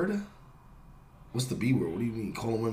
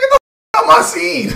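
fast, much higher, louder yell with laughter; retold yell; 8 dB louder than usual. Retelling catching a guy sneaking into his scene, laughing yell. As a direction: yell it fast while cracking up. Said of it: "I said".

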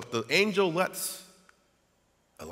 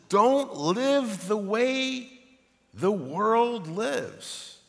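dramatic quote; 6 semitones higher, 4 dB louder, much slower than usual. Retold or imitated. Quoting Paul dramatically.

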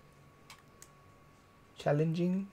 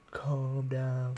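hammed-up, droning "calm down"; exaggerated calm-down. Shown as a demonstration. Vlogger repeating how she said it, exaggerated calming. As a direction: overdo the soothing with odd rounded vowels. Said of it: "after how I said it".

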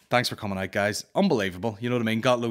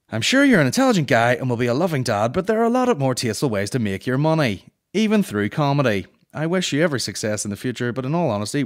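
preachy complainer; 3 semitones higher, 6 dB louder than usual. Retold or imitated. Comedian reading Marion's email, sanctimonious. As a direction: lecture him like a self-righteous mum.

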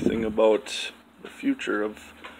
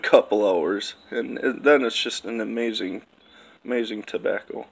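speaking around pipe stem; words through clenched pipe; talking with pipe in mouth. Real, not acted. Seen 0: Pipe brought to lips by 0.6s, stem clenched while talking.

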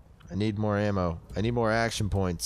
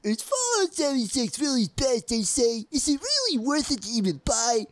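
skeptical customer; 11 semitones higher than usual. Retold or imitated. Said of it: "and they're like".

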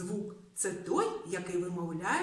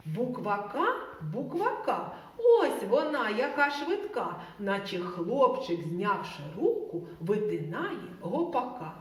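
1 rhyme recital; 4 dB louder than usual. Acted.

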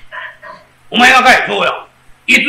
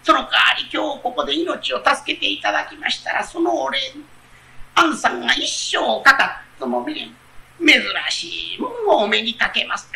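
fox pleading; 3 semitones higher, 4 dB quieter than usual. Acted. Fox pleading, offering a reward.

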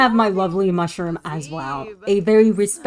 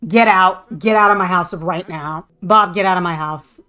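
mock furious order; angry yelling; 3 dB louder than usual. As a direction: get out, shouted at the sim. Yelling at sim Bob.

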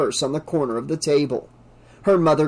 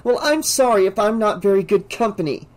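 resentful; 6 semitones higher than usual. A narrator's reading. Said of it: "Kristen said, standing".

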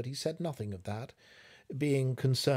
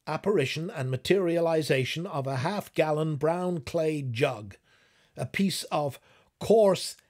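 higher and louder, pressing the point hard; agitated husband; 4 semitones higher, 5 dB louder than usual. Acted. Husband arguing the impossible jug, higher and louder in disbelief. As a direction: insist it can't be, rising in disbelief. Alvin argues the jug's appearance.

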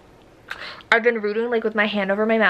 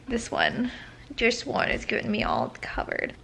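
soft aside; 8 dB quieter than usual. Real, not acted. Talking about dog.

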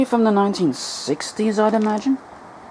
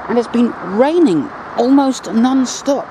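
raised voice against the wind; shouting over wind; 5 semitones higher than usual. Real, not acted. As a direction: speak up over the wind noise. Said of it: "if you can hear me over the wind blowing into the microphone".

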